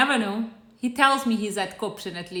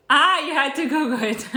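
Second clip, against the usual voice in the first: chuckling through the words; amused teasing laugh; 2 semitones higher than usual. Real, not acted. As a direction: laugh as you tease the viewer. Laughing at a viewer's comment.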